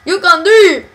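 loud, exaggerated Southern cheer; reading teacher impression. Friend proves only they do the teacher well, loud mock encouragement. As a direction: show off your best gushing teacher. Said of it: "reading teacher. She's just like".

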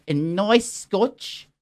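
"nice scotch" drawn out with relish; affected pronunciation. Shown as a demonstration. Man treats himself if rich and famous, savouring "nice scotch". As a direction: savour "nice scotch", stretching both words slowly. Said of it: "you gotta say it like that".

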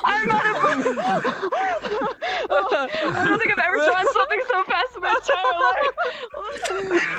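laughing. Real, not acted. Laughing at own speed drawing.

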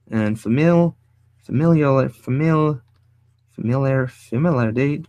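tongue-tied false starts; trying to get the word out; stumbling over a word. Real, not acted. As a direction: keep restarting the word, tripping on it.

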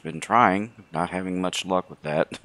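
slightly hoarse, sore throat. Real, not acted. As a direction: talk through a scratchy throat. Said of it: "yes, I do sound a little hoarse".

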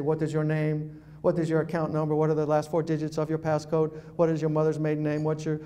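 cold interrogation. Retold or imitated. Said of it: "instead he'd say".

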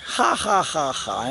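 mock laugh in separate, spoken ha-ha beats; imitated group laughter. Police laughing at him over the gum, mock laughter. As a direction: imitate their laugh, dropping in pitch and volume. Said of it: "they all laughed at me".

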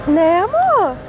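high, loud fond coo; pet talk. Real, not acted. Woman talking fondly to a stray cat, high loud coo. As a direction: ask the kitty sweetly.

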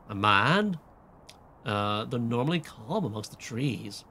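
lightly voiced teenage valley girl with a drawl; valley girl with a hint of Southern drawl; valley girl slipping southern. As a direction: read it as a pretentious teen, drifting Southern. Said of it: "I'm slipping into, like, a southern drawl".

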